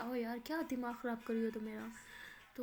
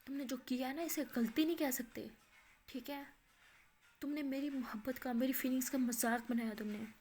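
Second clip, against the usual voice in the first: angry; 5 dB louder than usual. Acted. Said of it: "गुस्से से और कहती".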